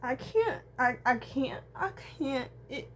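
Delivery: high, loud sobbing vow; forcing the words out through sobs; real crying. Real, not acted. Vlogger vowing through tears, sobbing loudly.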